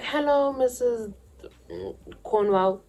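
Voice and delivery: high, polite little voice; sweet innocent greeting. Retold or imitated. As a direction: play the innocent girl at the door. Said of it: "Let's just say her name's that".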